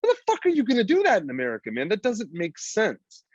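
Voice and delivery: incredulous rant. Retold or imitated. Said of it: "I'm like".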